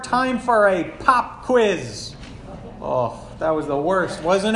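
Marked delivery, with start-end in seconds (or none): 0.0-2.2 lightly voiced teacher, slow and drawn out; acted teacher announcement. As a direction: announce a dreaded test to the class. Opens by acting a teacher's announcement.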